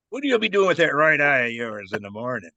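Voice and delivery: lightly imitated Irish brogue; a touch of Irish lilt on the question. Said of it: "I heard an Irish voice".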